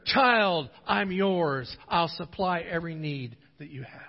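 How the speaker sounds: settling from loud to calm and gentle; God's reassuring answer. Acted. God answers the praying child.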